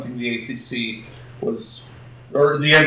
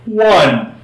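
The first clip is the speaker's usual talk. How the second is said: auctioneer voice. Pretend. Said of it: "I'm trying to do my best, uh, auctioneer voice".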